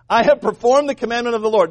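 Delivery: hammed-up Saul-like boast; mock-pious boast. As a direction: declare it proudly, hamming up the piety. Plays Saul boasting to Samuel.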